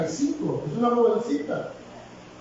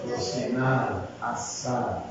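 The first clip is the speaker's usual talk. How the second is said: dropped deadpan punchline; 10 semitones lower, 6 dB quieter, slower than usual. Acted. Punchline of trout analogy.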